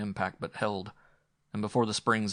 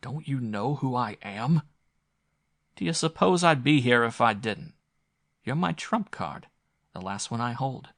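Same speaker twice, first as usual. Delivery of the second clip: higher, louder pleading, slowed; desperate plea; 3 semitones higher, 5 dB louder than usual. A narrator's reading. Visitor desperately pleads with Sturgis, higher and louder. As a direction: press him urgently.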